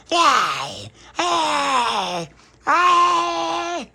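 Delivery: high, loud triumphant hey; gleeful vampire shouts. Acted. Pauline running to get little Pappy, loud gleeful shouts. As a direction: shout in glee at the catch.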